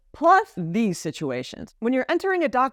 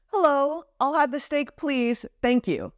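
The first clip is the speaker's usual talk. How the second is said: higher, slow and courteous; a polite greeting first, then a slow thanks; polite French-style order; 5 semitones higher, slower than usual. Shown as a demonstration. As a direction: ask nicely, taking your time over thank you. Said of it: "what we would say in French".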